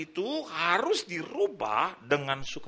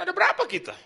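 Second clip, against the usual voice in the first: higher, louder call to the group; calling out count; 11 semitones higher, 5 dB louder, faster than usual. Retold or imitated. Pastor counting family in stairwell, higher louder call. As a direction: call out the question brightly up. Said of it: "kata Tuhan".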